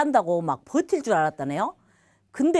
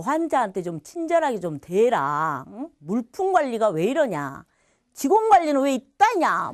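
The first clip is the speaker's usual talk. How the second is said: bossy supervisor. Retold or imitated. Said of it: "막 감독자처럼 막 이렇게 하니까".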